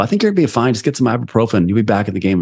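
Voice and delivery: mock casual trainer, pitched high at first; lightly voiced dismissive trainer; breezy trainer. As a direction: brush it off like a careless trainer. Retells dismissive high school trainer.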